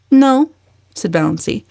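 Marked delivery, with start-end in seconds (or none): 0.1-0.5 loud, high snap; sharp no. A narrator's reading. Valancy answering her uncle, sharp and loud. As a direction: bite it off.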